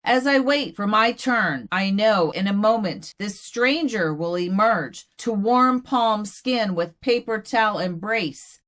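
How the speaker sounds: measured, deliberate recital; poetry reading. Acted. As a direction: let each image land with a pause. Recites her poem.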